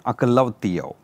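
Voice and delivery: అకలౌతియో pronounced as a Greek word; Greek pronunciation. Shown as a demonstration. Teacher shows the class the Greek word, అకలౌతియో in Greek pronunciation. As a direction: give అకలౌతియో as a careful Greek term. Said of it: "Greek pronunciation".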